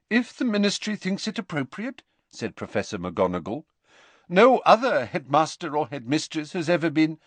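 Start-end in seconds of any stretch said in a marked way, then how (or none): 0.1-2.0 measured McGonagall. A narrator's reading. McGonagall replies. 4.3-7.2 stern professor, cut off. A narrator's reading. McGonagall cut off.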